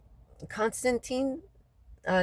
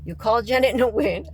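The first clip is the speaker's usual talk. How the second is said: louder, laughing mock of the official; a laughing, louder mock of the official telling her to call Janet Nguyen; loud mocking quote; 4 semitones higher, 6 dB louder than usual. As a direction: throw their words back, loud and laughing. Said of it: "You told me".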